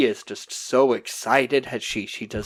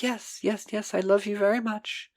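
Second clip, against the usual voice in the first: tag; 6 semitones higher, 7 dB quieter than usual. Retold or imitated. Elaine placating needy Wayne.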